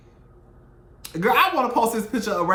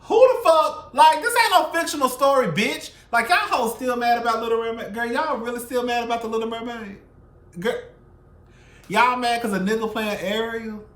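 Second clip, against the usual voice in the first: higher, louder, exasperated; outraged rant; 7 semitones higher, 5 dB louder than usual. Real, not acted. Vlogger ranting at white viewers, higher and louder outrage. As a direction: blast your outrage at them.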